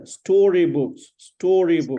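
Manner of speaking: STORYBOOKS with a long, clear first vowel; careful pronunciation. Shown as a demonstration. Teacher correcting a student's word, careful pronunciation. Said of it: "It's not story".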